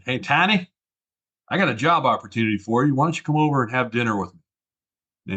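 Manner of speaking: put-on old Texan mentor's friendly phone pitch, Texas twang. Mentor calling a former colleague with a job offer, in Texas twang. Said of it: "he said in his best Texas, uh, twang".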